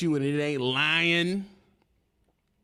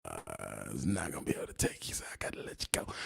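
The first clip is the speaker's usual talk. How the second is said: droning officer voice, fading to a whisper; monotone law voice; 11 semitones lower, 5 dB quieter than usual. Retold or imitated. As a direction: imitate a bored cop letting you go. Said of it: "with that monotone law voice".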